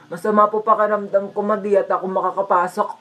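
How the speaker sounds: weak, pitiful pretend-sick plea; put-on poorly voice; feigning sickness. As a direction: act mildly feverish to skip school. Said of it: "nilalagnat ako para di na ako papasukin".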